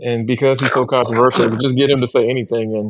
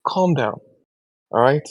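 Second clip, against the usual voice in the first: put-on very slow African accent scolding; 3 semitones higher, slower than usual. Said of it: "you should hear his African accent".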